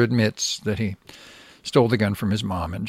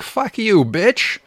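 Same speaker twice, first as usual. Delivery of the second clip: put-on higher, louder snapping retort in a kid's defiance; mock retort; 9 semitones higher, 4 dB louder, slower than usual. Host voicing the boy cursing at the cops, mock retort. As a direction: spit it back like a furious child. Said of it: "The boy shot back".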